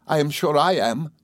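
put-on high, gentle young wife; lightly voiced bashful bride; blushing, happy bride. A narrator's reading. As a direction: agree shyly and happily. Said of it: "said the blushing and laughing Sophie".

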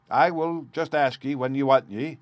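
put-on northern accent. A narrator's reading. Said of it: "asked in a northern accent".

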